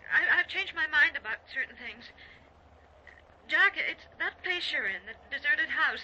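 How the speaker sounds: halting, anxious urgency; upset. Acted. Wife warning her husband about the house, upset. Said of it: "Wh-, what's upset you?".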